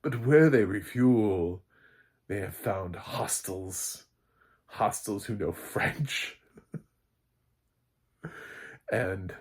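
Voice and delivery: ordinary talk, nothing marked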